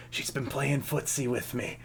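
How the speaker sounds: soft conspiratorial whisper. Acted. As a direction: lean in and tell the secret. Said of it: "he whispers to you at this point".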